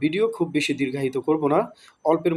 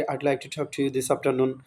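slow and softer, carefully spaced words; slow model sentence; 4 dB quieter, much slower than usual. Shown as a demonstration. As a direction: say it slowly so students can follow. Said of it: "যখন বলবেন". (ধীরে স্পষ্ট উচ্চারণে)

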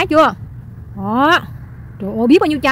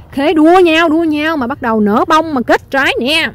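hyped-up gushing; 3 semitones higher, 4 dB louder, slower than usual. Real, not acted. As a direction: burst out proudly over the blossoms. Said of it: "Em Linh bữa nay tự nhiên sung quá". (reo lên hào hứng, kéo dài giọng)

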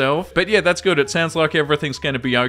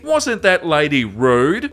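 slow, pointed, mildly mocking jab; imitating a smug mother, lightly; mock passive-aggressive; much slower than usual. Reader mimics the mother on the train, mock passive-aggressive. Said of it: "says loudly and passive-aggressively".

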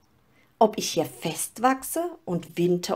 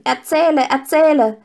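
higher, louder eager begging; children calling; 8 semitones higher, 7 dB louder than usual. A narrator's reading. Children clapping and begging the storyteller to go on. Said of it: "und riefen".

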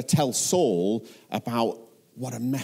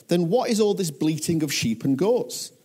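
raised-pitch, insistent questioning; demanding; 6 semitones higher than usual. A narrator's reading. Samuel confronting Saul about the livestock, demanding. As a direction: demand an explanation, pitch lifted. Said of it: "Samuel demanded".

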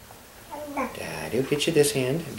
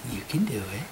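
whispering; 3 semitones lower, 6 dB quieter than usual. Real, not acted. Whispered encouragement.

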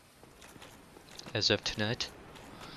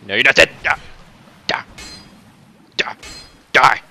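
loud, higher, real exasperated shout; frustrated yelling; 3 semitones higher, 9 dB louder than usual. Real, not acted. Gamer hacking at an enemy that won't die, exasperated yelling. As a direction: yell at the enemy to finally die.

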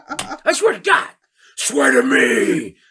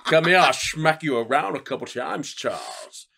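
Sean Connery. Retold or imitated. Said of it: "what if Sean Connery was Magneto".

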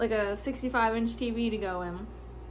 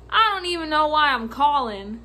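retold clueless caller; 2 semitones higher, 5 dB louder than usual. Acting out a baffling caller.

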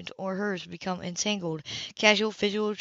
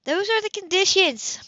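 higher, louder, final; firm ultimatum; 13 semitones higher, 5 dB louder than usual. Acted. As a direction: set the terms without budging. Sybil states final terms.

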